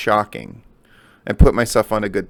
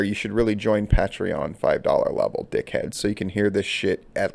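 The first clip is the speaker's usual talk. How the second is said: whispered aside; 3 semitones lower, 6 dB quieter than usual. Real, not acted. Aside plug, voice drops.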